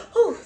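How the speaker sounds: long relieved exhale; relieved breath. Retold or imitated. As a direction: blow out the relief. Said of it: "that was legit a breath".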